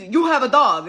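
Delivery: imitated loud accusation; aggressive loud talking. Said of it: "aggressive, like, talking really loud".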